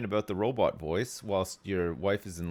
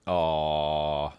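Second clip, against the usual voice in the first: tender aw; 6 semitones lower, 4 dB louder than usual. Pretend. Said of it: "you just say".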